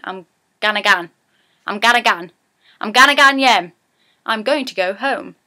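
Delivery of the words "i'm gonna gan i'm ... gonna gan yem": building Geordie gan. Shown as a demonstration. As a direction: build up I'm gonna gan yem. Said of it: "ganning or gan is going".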